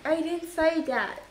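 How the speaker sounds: high, slow denial at normal volume; insistent protest. Acted. Daughter correcting her mum, slow insistent protest. Repeats the protest, less loudly.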